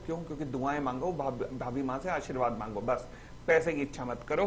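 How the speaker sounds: normal talking voice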